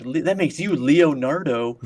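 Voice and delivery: slowed, deliberate punchline delivery; slow, smug mock quip. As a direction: drag the punchline out slowly. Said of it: "they're like".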